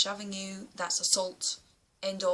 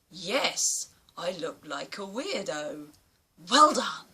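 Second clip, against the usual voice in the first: sarcastic agreement; 5 dB louder, slower than usual. Pretend. Replying to insult sarcastically.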